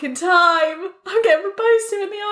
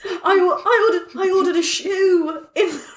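ordinary delivery

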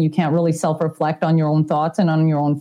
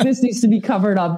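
laughing mock panic. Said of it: "I'm like".

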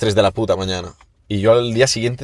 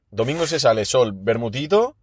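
mock serious; 4 dB quieter than usual. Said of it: "que esto es serio".

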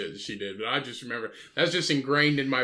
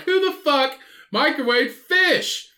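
very high, loud, drawn-out yell; retold yell; 9 dB louder, slower than usual. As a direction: re-enact an outraged shout, stretching each word. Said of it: "Yeah, I yelled it".

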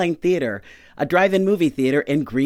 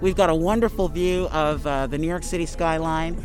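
muffled behind a face mask; speaking through a covered mouth; through a plague doctor mask. Real, not acted. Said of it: "can you understand me through this mask?".

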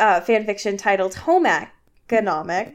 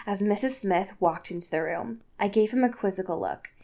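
soft, lowered fan-fiction reading; story narration; 4 semitones lower, 6 dB quieter than usual. Acted. Host reads fan fiction to co-host, story narration. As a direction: read it out quietly like a storybook.

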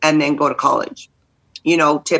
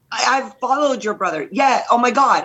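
retold fan excitement, much higher; hammed-up starstruck squeal, pitched up; excited; 6 semitones higher than usual. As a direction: gush like you just met a star's sister. Retelling her excited reaction.

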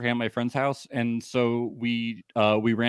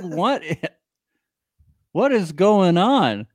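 drawn-out, slower mock disbelief; mock furious; 5 semitones higher, 4 dB louder, slower than usual. Repeating what Chaz said, slow and incredulous. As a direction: stretch each word in fake outrage. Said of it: "He's furious".

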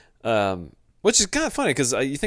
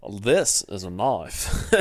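mock Australian, laughing; 3 semitones lower, much slower than usual. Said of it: "Australian persona".

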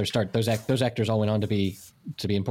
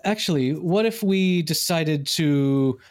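lightly voiced little grown-up, measured and deliberate; adult-sounding six-year-old; 2 semitones higher than usual. Six-year-old proposing an alternative plan, lightly voiced in careful adult English. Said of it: "Your children speak adult English".

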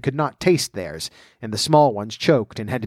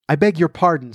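humbly; 4 semitones higher than usual. Acted. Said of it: "said Alice very humbly".

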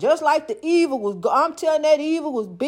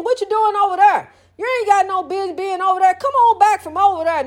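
scolding; 6 semitones higher, faster than usual. Acted. Scolding straying believers.

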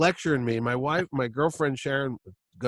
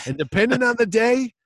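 mock grudge; 5 dB louder than usual. Telling Chaykin he hates him.

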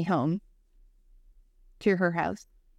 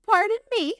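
higher, louder shocked pardon; 5 dB louder than usual. Retold or imitated. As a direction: react as if you misheard something wild. Shocked at news about aunt.

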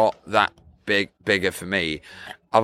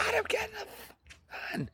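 dad voice; 13 dB quieter, much faster than usual. Retold or imitated. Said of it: "he's usually".

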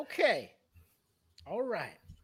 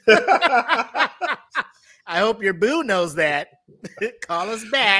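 robocall laughing; 3 dB louder, slower than usual. Retold or imitated. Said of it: "whole bank is just like".

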